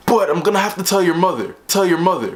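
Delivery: repeated like an echo, same falling tune each time; imitated echo of the principal's words; echoing in the head. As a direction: loop the words like a haunting echo. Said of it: "it just kept echoing in my head".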